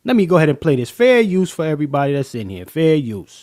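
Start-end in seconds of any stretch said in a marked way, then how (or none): 2.6-3.4 shouted disclaimer. Acted. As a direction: bark Fair use out like an announcement.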